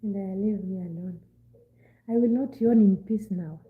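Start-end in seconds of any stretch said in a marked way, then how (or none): 2.1-3.6 loud, emphatic complaint; loud protest. Real, not acted. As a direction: declare it loudly. Protesting teasing about yawning.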